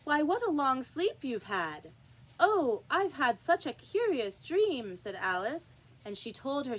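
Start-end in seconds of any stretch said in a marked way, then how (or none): 0.0-1.9 higher, louder teasing sister; sister's voice. Acted. Sister to waking Alice. 2.4-5.0 higher, louder, slow wonder; excited Alice. Acted. Alice just woke.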